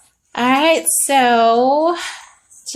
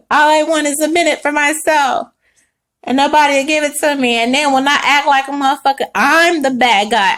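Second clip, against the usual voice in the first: louder, aggrieved acted rant; mock roaring complaint; 4 semitones higher, 4 dB louder than usual. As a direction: protest loudly as the misunderstood Leo. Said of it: "You're roaring your ass off right now".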